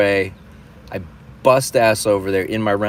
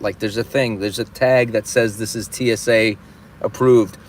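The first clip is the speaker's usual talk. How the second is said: retold furious rant, held just under a shout; seeing red; 3 semitones higher than usual. Traveler wanting to curse out airline staff, seeing red. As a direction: lean hard on every swear word, building as you go. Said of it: "I was just seeing red".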